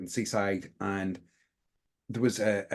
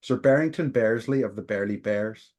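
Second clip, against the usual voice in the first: normal talking voice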